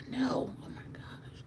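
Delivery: soft then whispered "Oh my gosh"; breathless whispered delight; hushed agreement. Retold or imitated. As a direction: drop to an awed whisper. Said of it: "I'm like".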